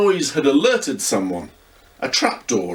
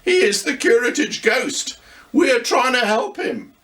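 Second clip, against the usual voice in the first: put-on higher, lively young boy voice; boy Luca; 11 semitones higher than usual. A narrator's reading. Luca teases grandad about looking scary, young boy voice. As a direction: play a cheeky young boy teasing grandad.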